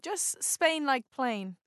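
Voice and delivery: "Spain" stretched to rhyme with "plain"; drawn-out Spain. Shown as a demonstration. Brit coaches the Canadians, "Spain" held long like "plain". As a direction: say "Spain" slowly with a long vowel. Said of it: "it's too long".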